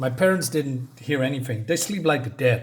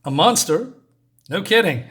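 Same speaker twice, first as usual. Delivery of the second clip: sarcastic; 4 semitones higher, 5 dB louder than usual. Real, not acted. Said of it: "sarcastic reaction".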